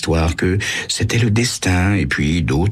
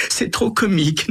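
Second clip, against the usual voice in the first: gloating laugh. A narrator's reading. Carole laughs at her scheme.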